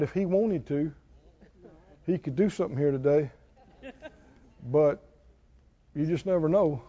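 soft, low, hesitant mock humility; meek resigned believer. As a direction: play the timid doubter shrugging it off. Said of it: "that sounds right to millions".

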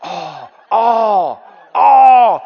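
hammed-up outraged cry, loud at the end; mock wail ending in a shout. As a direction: mimic the critics' whining protest. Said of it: "People who say that".

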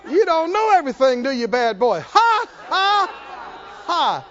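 taunting laughter. Pretend. Preacher taunting the defeated devil, shouted mocking laughter.

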